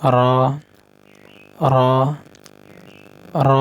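র said thick and full; heavy ra. Shown as a demonstration. Teacher telling students to say র thick. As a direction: give র a heavy, full sound. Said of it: "মোটা করে".

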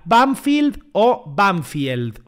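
slow first "Banfield" as "banfild", second "Banfield" as "banfyeld"; contrasting pronunciations. Shown as a demonstration. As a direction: set "Banfield" as "fild" against "Banfield" as "fyeld". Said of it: "¿Cómo se pronuncia?". ("Banfield" despacio, primero "banfild", luego "banfield" con diptongo)

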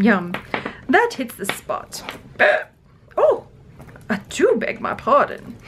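put-on royal English accent, savouring a treat; mock queen, grandly prim; snacking queen. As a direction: play the Queen enjoying a snack. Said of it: "The queen is like".

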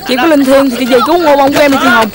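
pleading call, begging; pleading prayer. Acted. Boy begging his dead sister to save someone, pleading. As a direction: beg the dead sister for help.

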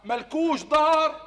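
slow, deliberate repeat. Acted. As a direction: spell out ملكوش دار for him. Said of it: "ها؟". (إعادة بطيئة وواضحة)

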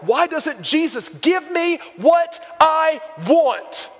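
mock-whining at God; whiny complaint. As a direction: whine it like a spoiled child demanding a gift. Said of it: "And we're like".

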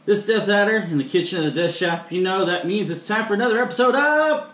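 lightly hammed Irish intro; fake Irish accent. Host introducing the episode in a light fake Irish accent. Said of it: "sorry for the fake accent there".

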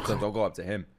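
low, soft "don't go up to him"; quiet warning. Real, not acted. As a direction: murmur the warning under your breath. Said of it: "Do not go up to the guy".

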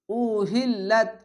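উহিল্লাত chanted slowly, hamza clear; slow recitation. Shown as a demonstration. Teacher reciting for students: slow chant. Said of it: "আলিফকে হামজা পড়বেন".

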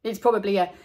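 joking. Acted. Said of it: "joked Buster".

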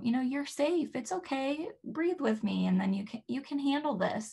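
put-on calm a baby upset about dressing; soothing baby talk. Shown as a demonstration. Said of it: "Another example would be".

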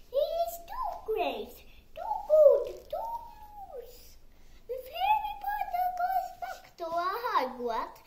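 high, loud, strained elf voice, pleading; an anxious little elf begging Harry to stay away; squeaky house-elf. A narrator's reading. Dobby warns Harry to stay away, in a high pleading elf voice.

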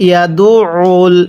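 ইয়াদুউল with ain pressed in the throat. Shown as a demonstration. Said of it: "গলার মধ্যে চাপ দিয়ে পড়বেন". (ইয়াদুউল গলায় চাপ দিয়ে)

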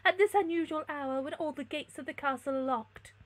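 theatrical lady's interrogation; imperious princess. A narrator's reading. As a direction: challenge the stranger. Princess questions the stranger.

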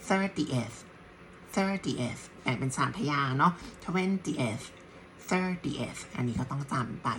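thirtieth said as thir-ti-eth; teacher breaks thirtieth into thir-ti-eth; three syllables. Shown as a demonstration.

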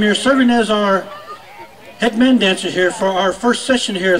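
booming arena announcer calling names; powwow emcee. Acted. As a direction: announce each dancer to the crowd.

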